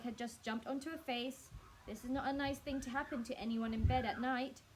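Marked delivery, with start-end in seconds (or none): 1.9-4.6 scream. Acted. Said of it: "She screamed again".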